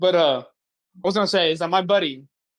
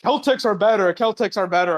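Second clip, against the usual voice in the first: mild mock yell; 3 semitones higher, 3 dB louder than usual. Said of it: "he started shouting".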